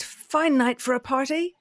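high, chirpy bat voice; squeaky. Acted. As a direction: keep the squeak going, casual. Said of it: "Bat squeaked".

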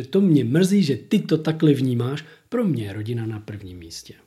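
a mock narcissist's fake apology fading to a whisper; mocking narcissist line. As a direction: imitate the slick apology, then whisper the family line. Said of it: "jak to Evča teď popisuje".

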